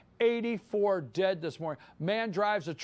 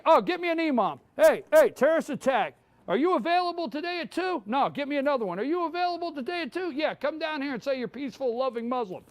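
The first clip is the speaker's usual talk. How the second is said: mock producer; 4 semitones higher, 3 dB louder, faster than usual. Mocks producers booking an imam.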